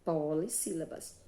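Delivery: "polissílabas" after a pause, with "po-li" emphasized; deliberate, measured "polissílabas"; set-off term. Shown as a demonstration. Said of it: "ela vai se chamar de".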